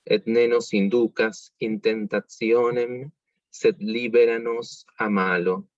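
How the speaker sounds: slow, clear Latin read aloud for learners; slow ecclesiastical Latin recitation; slow careful reading. Shown as a demonstration. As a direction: read the Latin slowly, word by word. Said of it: "lo voy a leer una vez sin cantar".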